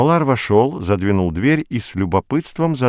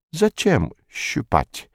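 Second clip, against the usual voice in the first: surprised; 8 semitones higher, much slower than usual. A narrator's reading. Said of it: "удивился Молар".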